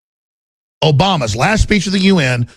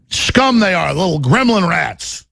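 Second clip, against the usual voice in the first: usual speaking voice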